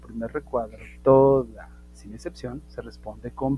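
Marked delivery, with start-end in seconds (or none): 1.0-1.7 "toda" loud and punched; stress on TODA. Shown as a demonstration. Teacher insisting there are no exceptions, loud TODA. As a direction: punch out "toda" as a firm reminder. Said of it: "y si digo toda, es toda".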